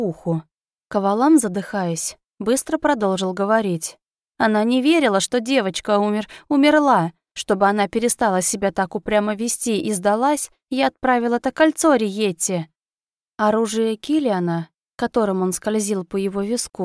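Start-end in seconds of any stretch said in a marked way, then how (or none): 4.4-12.7 frightened servant. Acted. Cavalam keeps confessing.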